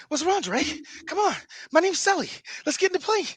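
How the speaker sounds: high-pitched impression of an actor as Sully; Mark Wahlberg. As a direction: lift the voice into a mock movie-star chatter. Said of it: "Mark Wahlberg as Sully".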